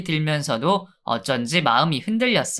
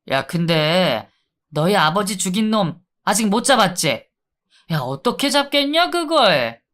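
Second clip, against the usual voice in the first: taunting inmate. Acted. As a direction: needle him with a smirk. Inmate taunts about father.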